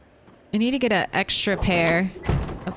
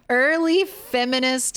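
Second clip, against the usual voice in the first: laughing; 5 semitones higher than usual. Real, not acted. Laughs at the irony.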